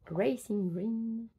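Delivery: French-accented try at English, drawn out; English words in a French accent; attempted English accent. Real, not acted. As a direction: try an English accent, slowly, without quite managing. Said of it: "Je n'ai pas l'accent anglais".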